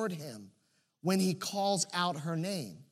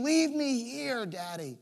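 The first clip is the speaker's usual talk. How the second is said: put-on ashamed child plea; 3 semitones higher than usual. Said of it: "too much shame".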